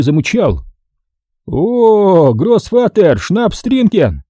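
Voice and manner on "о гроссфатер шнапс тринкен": slow hammed-up German accent, raised; mock German laughing. A narrator's reading. Max to the bearded man, mock German accent, slow and laughing. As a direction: mangle German words, laughing. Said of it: "захохотал Макс".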